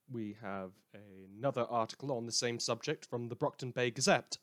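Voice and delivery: measured news-anchor delivery; dry radio newscaster tone; news read. Acted. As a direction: read the bulletin like an evening anchor. Reads fictional news bulletin.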